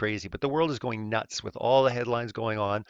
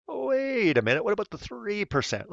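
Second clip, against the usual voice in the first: much higher, hammed-up double take; mock surprise; 9 semitones higher than usual. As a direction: pretend to suddenly notice.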